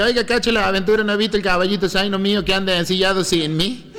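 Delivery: Villa Dolores paisano. Retold or imitated. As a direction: ask like a lost-horse rancher. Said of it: "Entonces me dice". (paisano de Villa Dolores con tonada, voz más aguda)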